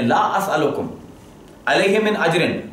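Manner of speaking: "لا اسألکم علیہ من اجرن" recited, then a stop at اجرن; pause after اجرن. Shown as a demonstration. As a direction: recite up to "اجرن" and break off there. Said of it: "there is a pause".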